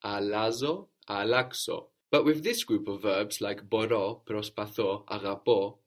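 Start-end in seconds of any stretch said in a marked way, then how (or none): 3.6-5.8 μπορώ, προσπαθώ, αγαπώ, each stressed on the final ώ; end-stressed list: μπορώ, προσπαθώ, αγαπώ; accent on the ending. Shown as a demonstration. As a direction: land on the last syllable of μπορώ, προσπαθώ and αγαπώ. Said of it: "we have the accent on the ending".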